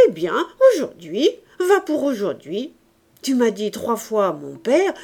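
lightly voiced lively old man; indulgent old grandfather. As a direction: give in with cheerful bluster.

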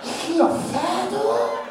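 put-on slow, baffled Asian accent, rising up to a shout; a hammed-up stumped genius in an Asian accent; puzzled Asian mathematician accent. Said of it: "he will look at it and go".

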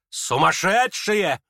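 exasperated, drawn out; slow scornful exclamation. Acted. Lizaveta scorns the crowd, drawn-out contempt. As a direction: drag the word out in contempt.

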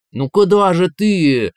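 high, loud, slow whine; whining. Acted. Inner voice whines as Valentin walks away, whimpering. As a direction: whimper after him like a spoilt child. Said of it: "захныкал голос".

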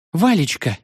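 lightly voiced frightened girl; sobbing cry. A narrator's reading. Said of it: "всхлипнула она". (испуганно всхлипывая)

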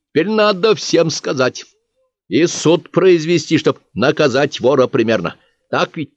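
lightly voiced village bookkeeper. Bookkeeper tells the witnesses about a trial, pleased and official.

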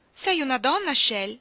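loud, high, shocked question; astonished cry. A narrator's reading. Woman suddenly suspecting her lover's sex, astonished shout. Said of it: "gridò lei".

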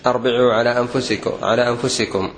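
"أربعوا" with opening a and i after the b; common misreading. Shown as a demonstration. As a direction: say "أربعوا" as arbi'u, the mistaken form. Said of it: "هذا خطأ مشهور".

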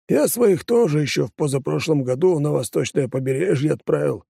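lightly voiced deputy; worried deputy voice. Депутат продолжает. (чиновник делится по секрету)

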